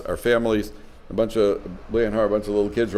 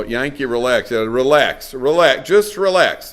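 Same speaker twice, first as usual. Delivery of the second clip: a father talking himself down, getting louder; self-calming building; 4 dB louder, slower than usual. Retold or imitated. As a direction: start easy, then push harder each time. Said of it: "the father has to remind himself".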